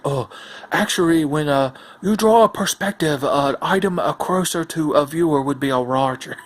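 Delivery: lightly put-on Asian accent; mock the card's Asian accent; mock Asian caricature. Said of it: "racist caricature voice".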